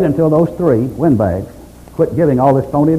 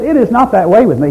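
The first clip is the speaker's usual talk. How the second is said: high, wailing complaint; anguished protest; 9 semitones higher, 4 dB louder than usual. Retold or imitated. Job protesting his suffering, high anguished wail. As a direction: cry out at the injustice.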